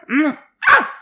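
wordless grunt of frustration; sigh, then burst out in exasperation; frustrated sigh and sharp "ah"; exasperated groan. Real, not acted. Fed up, venting at everybody.

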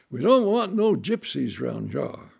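loud, hostile country threat; menacing farmers. Retold or imitated. Farmers ordering the gypsies away, loud and hostile. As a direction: warn the strangers off, loudly.

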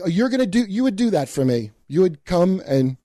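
high, sugary sarcasm; sarcastic mock gratitude. Mocking her offer to consult, high and sarcastic. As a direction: gush it with fake thanks. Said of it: "And I'm like".

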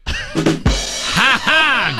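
high, forced courtesy laugh; polite laugh. Pretend. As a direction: give a dutiful fake laugh. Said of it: "I courtesy laugh him the whole show".

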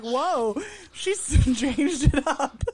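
a playful, slowed-down tease of his cohost; imitating cohost. Host mimics cohost hearing a new accent, slow laughing tease. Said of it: "He'll be like".

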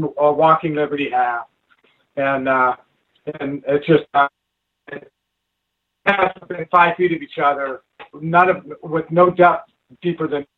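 breaking up over the phone line; bad connection. Real, not acted. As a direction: voice dropping out on a bad call. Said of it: "you're cutting out some".

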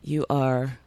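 slow, hushed whisper; mock whisper. Telling the listening caller off, in a mock whisper. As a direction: whisper it slowly like a secret message.

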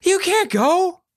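high, slow pleading shout; desperate call. A narrator's reading. Girl chasing them down the pier, desperate call. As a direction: beg them to stay. Charlie calling after them.

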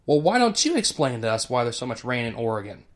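simple, even-toned open question; calm question. Retold or imitated. Linus calmly turning the question back on the girls. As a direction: ask it coolly, no heat at all. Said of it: "He simply could have turned around and said".

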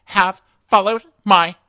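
high, word-by-word mock scolding; Claire. Podcaster mimicking a contestant on her dreams, telling-off tone. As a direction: punch each word high, with hard stops. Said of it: "she sounds like she's telling you off".

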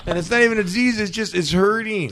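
high-pitched retold whine; retold complaint. Acting out his own past complaint.

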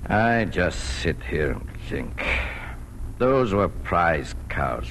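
slow, weighted words with long pauses; heavy brooding. Acted. Farmer to his wife after shooting the prize cows, heavy brooding. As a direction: let each phrase sink, weary with regret.

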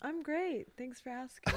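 lightly put-on podcast guest voice; a hint of polished radio politeness. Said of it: "you're using your podcast voice".

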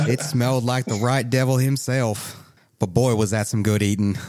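relishing Southern storekeeper; folksy Southern shopkeeper. Acted. Shopkeeper telling customers about eating the bear, folksy Southern relish.

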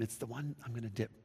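very soft, unvoiced whisper. Jesus answering John in secret, a whisper. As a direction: breathe it quietly in his ear. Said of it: "he leans in to tell him".

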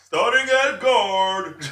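loud, drawn-out mock introduction; ring announcer. Podcast host introduces a wrestling match like an announcer. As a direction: call it out slowly, high and loud.

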